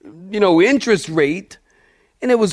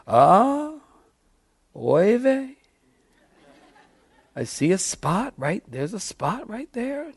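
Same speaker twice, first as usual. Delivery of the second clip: put-on Yiddish accent; 3 semitones higher, 7 dB quieter, slower than usual. Priest inspecting lamb says oy vey.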